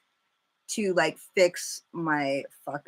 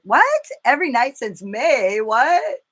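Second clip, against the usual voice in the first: much higher, louder What; shocked; 5 semitones higher, 6 dB louder than usual. Real, not acted. Reacting to fireworks every hour, shocked yelp. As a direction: yelp it in disbelief.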